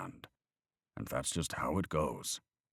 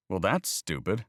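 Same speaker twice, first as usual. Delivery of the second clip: put-on higher, louder earnest boy questioning faith; young boy arguing about God, higher and louder; voiced young boy; 5 semitones higher, 5 dB louder than usual. A narrator's reading. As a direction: play the boy pressing his point.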